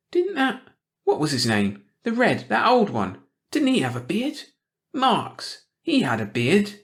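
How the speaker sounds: a prying small-town gossip sniffing out trouble; suspicious old gossip. A narrator's reading. Missus Hackett voice again.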